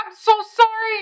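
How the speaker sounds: high, whiny imitated apology; pleading apology. Begging Marlene to come in, high pleading apology. Retold apology to protesting coworker.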